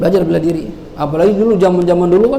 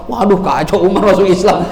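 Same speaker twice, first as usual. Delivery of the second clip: laughing dismay; 2 semitones higher than usual. Acted.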